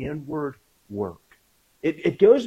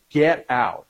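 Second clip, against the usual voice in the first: louder, mildly angry mock order; retold angry command, a bit louder; mad, retold; 6 dB louder than usual. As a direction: imitate a mad man ordering people out. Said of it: "And he was mad".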